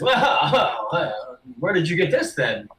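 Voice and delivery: taken-aback merchant with a little laugh; a touch of surprise, then probe the seller; mildly surprised orc. Acted. Orc merchant seeing the rug unrolled, a little surprised. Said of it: "he looks a little surprised".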